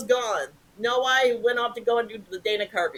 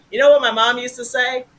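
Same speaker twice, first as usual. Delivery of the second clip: mock deadpan punchline; 4 semitones higher, 8 dB louder than usual. Colbert's demonstrated opening line.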